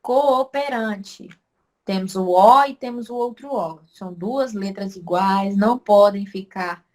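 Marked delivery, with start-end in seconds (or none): 0.0-1.3 slowed word. Shown as a demonstration. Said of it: "também separa".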